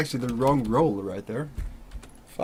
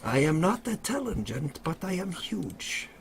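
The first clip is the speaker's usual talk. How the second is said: dopey cartoon bellow; 4 semitones higher, 5 dB quieter than usual. Brute innkeeper boasts.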